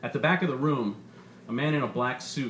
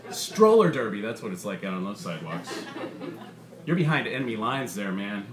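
lively, punchy comedian working the crowd; stand-up comedian; 3 semitones higher than usual. Acted. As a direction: sell the bit to a packed club. Comedian's stand-up set in story.

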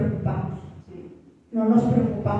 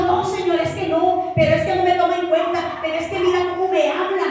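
higher-pitched complaint to the Lord, mildly yelled; mock yelled protest; 6 semitones higher than usual. Believer protesting to God under discipline, mock yelled complaint. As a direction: cry out in protest like a scolded child, pitched up. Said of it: "Y gritamos".

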